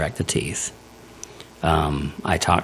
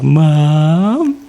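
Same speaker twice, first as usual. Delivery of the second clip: high, loud calling Mom; high dopey call; 10 semitones higher, 7 dB louder than usual. Retold or imitated. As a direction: call out like a groggy daughter. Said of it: "she's like".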